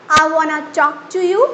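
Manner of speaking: "I wanna talk to you" in a plain Indian accent, hard t. Shown as a demonstration. Teacher shows the Indian version first. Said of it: "Indian accent and versus busting sound".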